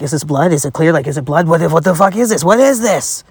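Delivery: panicked self-check, voice climbing at the end; mock panic. Acting out panicked check in public.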